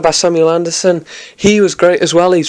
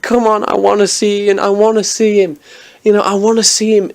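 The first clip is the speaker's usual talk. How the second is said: eager pleading; 6 semitones higher than usual. Retold or imitated. Imagined fan pleading to see Ian.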